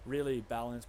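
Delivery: "balanced" said loud and ironic, in air quotes; sarcastic. Acted. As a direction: lean on "balanced" with heavy irony. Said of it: "put quotes around that".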